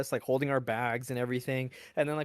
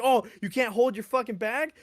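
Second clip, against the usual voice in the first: higher, louder mocking yell; mocking sergeant; 7 semitones higher, 5 dB louder than usual. Sergeant mocking a recruit who dropped his bag, loud. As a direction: sneer it at the recruit. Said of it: "they're like".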